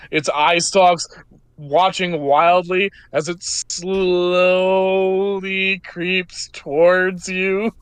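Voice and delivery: slow, ominous monster reveal; game master's narration. A narrator's reading. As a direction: stretch the words as the horror creeps closer.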